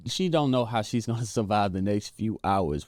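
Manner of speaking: real laugh slipping out mid-sentence. Real, not acted. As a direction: chuckle through the words. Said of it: "which I'm laughing".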